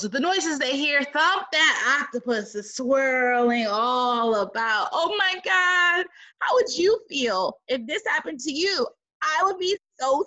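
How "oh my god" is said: excited exclamation. Real, not acted. Reader reacting.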